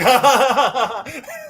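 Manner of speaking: high, drawn-out mock laughing; imitated laugh. Retelling two characters laughing together, imitated high laugh. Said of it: "The guy laughs with him".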